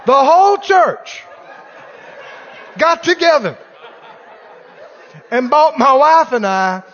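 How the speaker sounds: hammed-up offended pastor; loud mock outrage at the gift; mock indignation.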